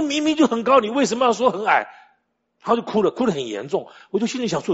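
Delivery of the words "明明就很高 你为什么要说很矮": high, loud mock-tearful child's protest; upset child protesting. Small son arguing with dad about the fan, mock-tearful protest. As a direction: imitate a child insisting through tears, pitched way up. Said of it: "然后就哭了".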